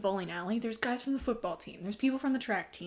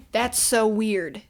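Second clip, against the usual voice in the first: incredulous; 10 dB louder, much slower than usual. Real, not acted. Reacting to plot twist.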